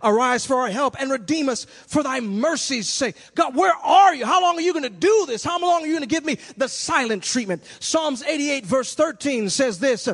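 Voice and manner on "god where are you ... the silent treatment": desperate plea. Acted. Preacher voicing desperate cry to God.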